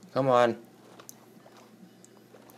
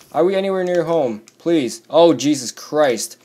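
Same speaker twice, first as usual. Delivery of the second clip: loud, raised-pitch desperate plea; panicked pleading; 5 semitones higher, 6 dB louder than usual. Real, not acted. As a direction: plead to be home already. Pleading while under attack.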